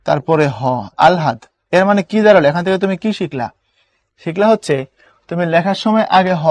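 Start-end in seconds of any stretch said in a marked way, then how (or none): 1.1-1.4 আলহাদ with ল first, then হ; correct pronunciation. Shown as a demonstration. Teacher telling class the correct form আলহাদ. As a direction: say আলহাদ, ল before হ. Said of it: "উচ্চারণটা হলো আগে ল".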